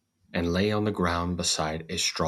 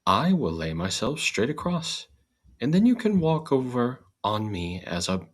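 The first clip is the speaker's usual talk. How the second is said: straw's voice; 6 semitones higher than usual. Acted. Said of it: "The straw hit on a good idea and said".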